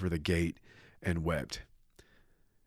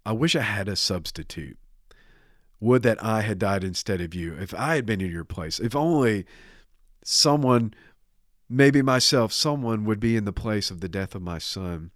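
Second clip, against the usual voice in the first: acted plea, swelling louder midway; desperate pleading; 2 semitones higher, 4 dB louder than usual. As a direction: grasp desperately for another way. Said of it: "he is grasping desperately".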